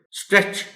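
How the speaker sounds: اسٹریچ with s and t blended in one go, "stretch"; correct stretch cluster. Shown as a demonstration. Teacher modelling the right way to say اسٹریچ, st in one sound. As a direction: say اسٹریچ cleanly, no vowel before the st. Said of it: "ایس اور ٹی کو آپ نے ایک ہی sound میں بولنا ہے".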